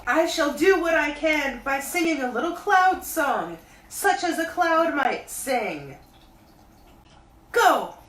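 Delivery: high, loud bear calling down; Pooh voice. A narrator's reading. Pooh calling down to Christopher Robin, high bear voice. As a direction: call up from the honey tree like a bear. Pooh announces cloud song.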